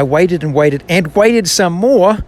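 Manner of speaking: slow, weighted stress on each "waited"; emphatic repetition. Shown as a demonstration. Reader adding own emphasis to Psalm forty, emphatic on "waited". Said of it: "The emphasis is mine".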